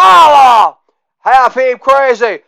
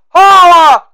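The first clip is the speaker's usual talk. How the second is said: loud higher holla, dropping at the end; shouted catchphrase; 7 semitones higher, 6 dB louder than usual. Acted. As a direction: belt out holla, pitch falling.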